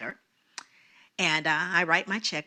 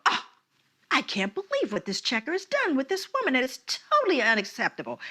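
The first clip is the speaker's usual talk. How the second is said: higher-pitched, appalled exclamation; indignant onlookers; 5 semitones higher than usual. Retold or imitated. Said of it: "the two white elderly ladies go".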